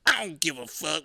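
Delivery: mock roommate brushing him off; dismissive roommate. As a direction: toss it off like the roommate. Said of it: "one time he was like".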